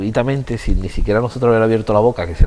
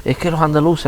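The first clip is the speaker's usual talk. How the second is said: mock Madrid snob; 7 semitones higher than usual. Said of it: "ellos lo decían de otra forma que yo no sé decirlo".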